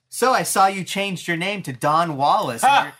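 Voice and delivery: high, gleeful Joker voice with a laugh; Joker taunt. Retold or imitated. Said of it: "He's like".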